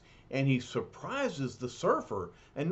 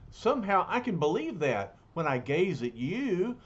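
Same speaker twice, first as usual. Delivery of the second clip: gentle hero voice; 2 semitones higher than usual. Acted. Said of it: "And surfer answers".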